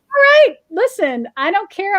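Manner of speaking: pumping herself up. Retold or imitated. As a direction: hype yourself up, a little defiant. Psyching herself up alone.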